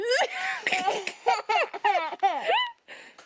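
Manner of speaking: squealing giggle; a high burst of delighted laughter. Real, not acted. Baby plays, she laughs.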